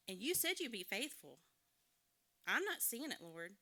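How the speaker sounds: a hint of real frustration, pleading; angry prayer. Mother venting to God about the family's money troubles, mock angry. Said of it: "I was like".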